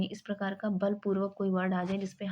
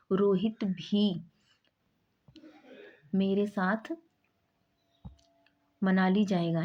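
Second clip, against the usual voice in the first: slow, weighted भी after Rohit; drawn-out Rohit भी with emphasis; stress on भी; slower than usual. Shown as a demonstration. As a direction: press भी in Rohit भी. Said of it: "यहाँ पे बल लगा रहे हैं".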